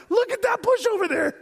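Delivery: high, excited astonishment at the bush; excited gawking. Pretend. Preacher imitating a startled onlooker, excited and high. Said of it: "No, you'd be like".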